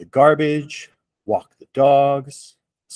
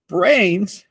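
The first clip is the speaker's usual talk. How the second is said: higher, calling zombie cry; 7 semitones higher than usual. A narrator's reading. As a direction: call out to lure the horde. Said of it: "cried Reginald".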